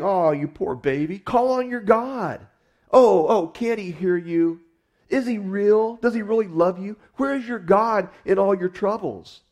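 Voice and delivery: high, sneering mock pity; mocking taunt. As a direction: taunt him like a cruel bully, sing-song and scornful. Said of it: "however, do mock him".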